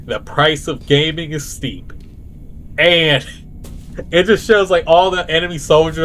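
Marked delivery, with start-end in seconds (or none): 0.1-1.9 slow, dramatic hero's last words; slowly, like a last stand; slow epic last words. Pretend. Parody hero before his final charge, slow and solemn. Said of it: "he just says".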